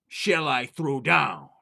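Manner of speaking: slow, drawn-out ghostly call; a spirit moaning down the chimney; eerie chimney voice. Acted.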